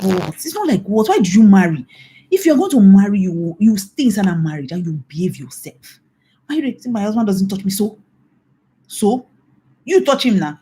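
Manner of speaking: mock indignant retort. Preacher acting her retort to wife.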